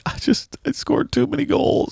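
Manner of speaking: high whiny mocking voice; mock whiny braggart. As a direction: whine it like a spoiled star. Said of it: "imagine me like".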